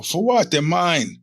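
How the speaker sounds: high-pitched retold objection; indignant protest. Patient arguing with dental staff over his teeth, indignant.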